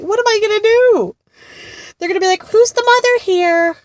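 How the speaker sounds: high, loud comic panic; laughing, mock-horrified rant; exasperated. Real, not acted. Comic panic about tall daughter.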